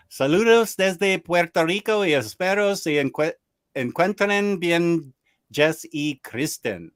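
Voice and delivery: bad gringo Spanish accent; crappy Spanish accent. Shown as a demonstration. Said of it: "really crappy Spanish accent".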